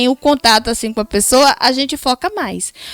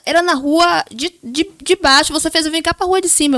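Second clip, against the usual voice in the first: higher-pitched mock complaint; imitating husband's irritating intonation; 3 semitones higher than usual. Wife mimics husband complaining about a wrong turn, irritated intonation. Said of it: "a entonação mesmo incomoda".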